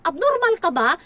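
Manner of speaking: loud, high scolding shout; exasperated nanny yelling. Retold or imitated. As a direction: snap at the kid for overreacting. Scolding the child in shower.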